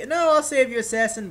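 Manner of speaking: high, loud pretend urgency; hammed-up hero to the rescue; mock-heroic rescue cry. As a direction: call out as the would-be saviour. Acting rescue of a teammate.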